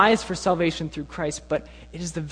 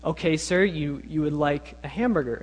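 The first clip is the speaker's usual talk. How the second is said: lightly imitated polite cashier; patiently courteous mock cashier. Cashier confirms the customer's odd order, very politely. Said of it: "the cashier would very politely say".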